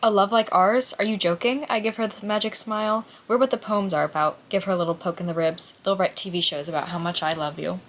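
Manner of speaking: reading a novel passage aloud, a touch livelier on the quotes. Acted. Reader sharing a passage from the novel, read aloud. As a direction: read the lines like the book's narrator.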